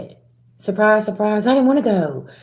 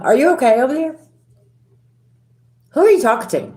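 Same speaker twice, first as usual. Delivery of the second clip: higher, mock-baffled comeback; incredulous retort; 7 semitones higher, much faster than usual. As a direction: sound like you can't believe they spoke to you that way. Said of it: "and you're like".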